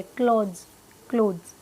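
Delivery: क्लॉथ्स buzzed to a Z, not S; Z at the end. Shown as a demonstration. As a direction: finish क्लॉथ्स on a voiced dz. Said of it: "स नहीं है पीछे, ज है".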